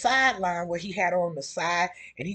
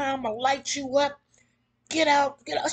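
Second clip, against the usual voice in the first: retold yelling; 6 semitones higher than usual. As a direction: lean in and bark the order at her. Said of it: "He started yelling at her".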